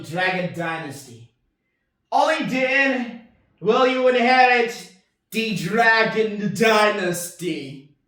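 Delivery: grave, slow kung fu master voice; martial arts villain. Pretend. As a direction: deliver it as a solemn dojo challenge. Villain challenge speech.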